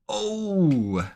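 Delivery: sharp high excited yelp; a burst of sudden delight; surprised oh. Real, not acted. Trader seeing a big candle, high excited yelp.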